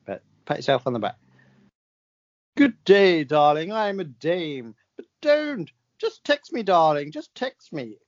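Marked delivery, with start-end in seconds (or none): 2.6-8.0 hammed-up grand dame voice, high in places; posh dame. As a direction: play a theatrical old dame, slowly. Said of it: "Helen Mirren".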